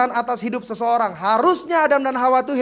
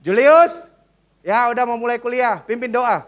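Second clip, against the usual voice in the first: mock lecturer calling out; 7 dB louder than usual.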